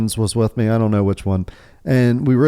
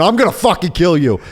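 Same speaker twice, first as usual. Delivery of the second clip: retold threat; 5 semitones higher than usual. Retold threat in shouting match.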